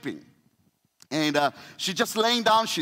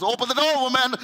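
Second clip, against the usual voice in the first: frustrated demand; 4 semitones higher, faster than usual. Retold or imitated. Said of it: "He just".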